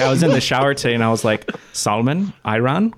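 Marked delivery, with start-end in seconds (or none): 1.7-2.9 lightly mimicked Dutch-accented English, each word rising at the end; imitated Dutch accent. Host rehearsing words in the shower, imitated Dutch accent. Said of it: "watching Dutch people speaking in English, trying to say English words".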